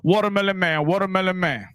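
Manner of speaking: mild imitation of a vendor's loudspeaker cry; imitating street vendor. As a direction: call out like the man on the van loudspeaker. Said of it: "everybody knew about the Watermelon Man".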